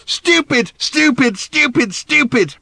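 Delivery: high, loud, repeated furious shout; angry shouting. Acted. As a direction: hammer the word home. Daughter yelling at her father.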